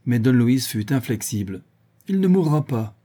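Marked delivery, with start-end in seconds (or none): 2.1-2.9 higher, emphatic exclamation; exclaiming. A narrator's reading. Don Luis overrules his worried friends, exclaiming. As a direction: cry it out, inflexible. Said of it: "s'écria-t-il".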